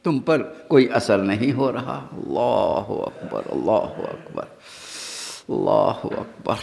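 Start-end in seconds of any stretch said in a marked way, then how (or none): 2.1-6.5 low, soft, drawn-out takbir; hushed takbir. Real, not acted. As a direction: let it sink slowly, almost under the breath. Preacher's awed exclamation mid-sermon. (دھیمی، ٹھہری ہوئی تکبیر)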